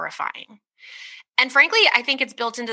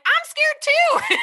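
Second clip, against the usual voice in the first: high, laughing retort with a hint of exasperation; much slower than usual. To her worried friend, laughing and exasperated. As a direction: laugh it out, half frustrated. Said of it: "so pissed off because I was like".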